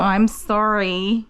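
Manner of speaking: slow, drawn-out sorry to a puppy; cooing apology. Real, not acted. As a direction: stretch out a fond apology to the offended dog. Apologising fondly to offended puppy.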